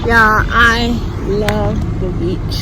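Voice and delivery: loud, projected voice; talking over the wind. Real, not acted. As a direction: shout over the beach noise. Loud at windy beach.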